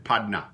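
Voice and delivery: padna with a clear d, no r; Louisiana padna. Shown as a demonstration. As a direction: say padna, the r dropped, d for t. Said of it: "we pronounce it padna".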